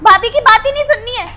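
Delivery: put-on angry sister-in-law scolding the children; scolding yell. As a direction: snap at the kids who won't listen. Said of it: "क्यों चिल्ला रही हो इनके ऊपर".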